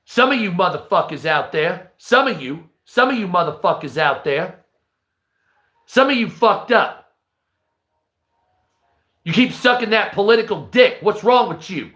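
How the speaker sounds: a hint of a swaggering thug; lightly voiced cocky tough guy; Gatlin voice. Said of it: "that's Gatlin".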